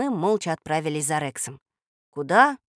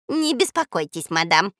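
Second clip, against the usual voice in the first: polite; 4 dB louder than usual. Acted. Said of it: "учтиво произнёс Жако".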